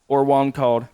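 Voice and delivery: normal talking voice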